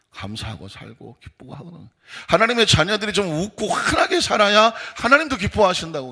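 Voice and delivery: ordinary delivery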